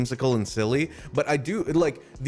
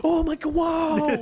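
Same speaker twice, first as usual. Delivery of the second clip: put-on amazed kids shout; slower than usual. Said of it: "And they're like".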